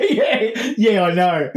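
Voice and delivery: loud, laughing mock retort; hammed-up fed-up reply; exasperated boyfriend. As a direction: bat the compliment back loudly. Acts boyfriend bouncing lines back.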